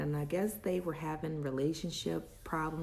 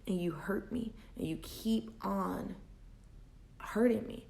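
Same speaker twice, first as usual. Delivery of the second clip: hurt whisper. Retold or imitated. Telling him he hurt her.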